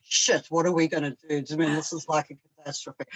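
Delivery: soft, fast sarcastic coo; mock sympathy. Wife teasing husband over the dog, mock sympathy. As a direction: tease him with fake pity. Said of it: "And then I go".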